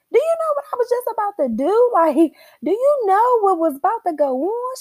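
a prim phone-manner voice; mock polite disbelief; social voice. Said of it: "in my social voice".

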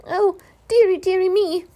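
high, loud frightened wail; high loud squeaking panic; panicked squeak. A narrator's reading. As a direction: squeal in alarm. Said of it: "squeaked Piglet again".

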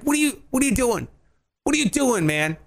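mock exasperation. Voicing critics' disbelief.

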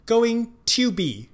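going to be 里的 to 弱读成短促的 tə; 把 going to be 的 to 念短念轻; reduced to. Shown as a demonstration. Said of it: "to很有可能会发成". (示范 to 的弱读)

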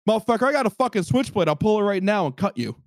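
imitating an angry man's warning; retold threat. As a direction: threaten someone, pitch jumping up. Retold vendor threatening with a knife.

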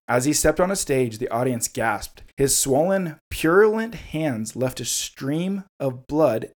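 measured, deliberate storyteller's reading; story narration. Acted. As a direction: read the grim tale aloud. Reads horror story excerpt aloud.

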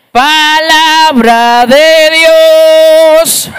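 very slow, loud, high chanted proclamation; a reader proclaiming the word to the whole church; liturgical intoning. Retold or imitated. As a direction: intone it like the priest at mass. Reading the liturgy at the altar.

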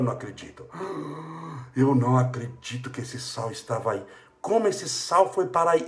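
quiet, hushed mock astonishment; stunned disbelief. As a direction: breathe out the shock of finding it. Finding the salt in disbelief.

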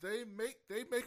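jumping in with high, loud excitement; excited. Real, not acted. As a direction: burst out with it. Excitedly recalling the book.

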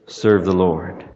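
serve drawn out slow and heavy; slow emphatic vow. Acted. Preacher quoting Joshua to the congregation, slow stress on serve. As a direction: lean hard and slow on serve.

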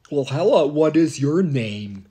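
put-on high, loud greeting to a child; sugary camp-host hello; mock friendly astronaut. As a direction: greet a kid like a kindly astronaut. Voicing Don Pettit at camp.

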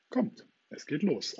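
rally everyone on the spur of the moment; spontaneous. A narrator's reading. Peter answers the boys who want to join, spontaneous rallying call. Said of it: "antwortete Peter Pan spontan".

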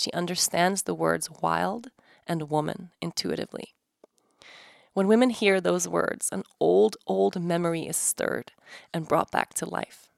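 calm, measured book reading; reading aloud. Acted. Host reading a treasured book passage to listeners, calm and measured. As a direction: read the passage like it matters.

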